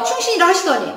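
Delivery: quick acted challenge; brisk mock reproach; mildly confrontational. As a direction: call someone to account, mildly. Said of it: "약간 따지는 것 같지 않니".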